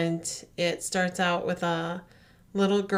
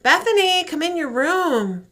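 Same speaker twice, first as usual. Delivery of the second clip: eerie calling voice; 7 semitones higher, 4 dB louder than usual. Retold or imitated. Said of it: "she hears".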